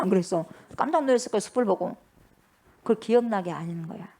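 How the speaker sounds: ordinary talk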